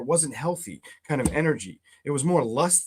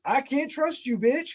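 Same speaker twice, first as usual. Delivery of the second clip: mock distrustful snap; 10 semitones higher, slower than usual. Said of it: "kind of energy".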